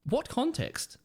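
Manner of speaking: pitched high in disbelief; incredulous. Real, not acted. Mocking fence sitters, high and incredulous. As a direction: scoff at the answer, voice jumping up.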